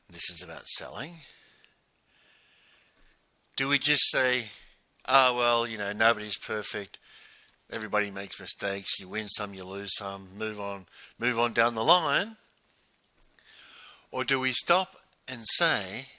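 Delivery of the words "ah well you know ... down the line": casual, shrugging the loss off; mock excuse-making, easygoing and resigned; dismissive shrug. Shown as a demonstration. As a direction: brush it off like it doesn't matter. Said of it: "Notice the difference in tone".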